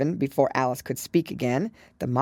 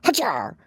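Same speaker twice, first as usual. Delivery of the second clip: gryphon exclamation; 6 semitones higher, 4 dB louder than usual. A narrator's reading. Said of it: "an occasional exclamation".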